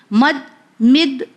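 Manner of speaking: مد drawn out slowly, twice; teacher slowly drilling مد; slow syllable drill. Shown as a demonstration. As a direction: stretch مد slowly, rounding the vowel. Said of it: "پیش کے ساتھ آیا تو گول face ہو گیا".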